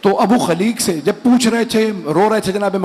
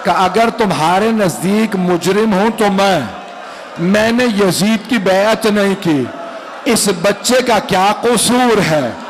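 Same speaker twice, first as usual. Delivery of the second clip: sorrowful majlis recitation, pleading at times; lamenting recitation. Acted. Preacher telling the infant's martyrdom to mourners, lamenting. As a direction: draw the mourners into the grief.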